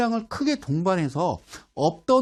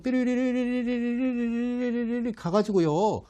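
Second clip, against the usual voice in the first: a higher, slow trilling noise for a rising line; mock whistle; 5 semitones higher, slower than usual. Teacher imitating the chart line climbing, playful trill.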